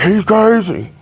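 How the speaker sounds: high mocking voice; a quick mocking squeal; mock friend. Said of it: "You're like".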